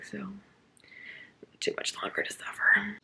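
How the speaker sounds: slow, whispered, long-suffering. Real, not acted. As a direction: sigh it out as a weary aside. Complaining about a book.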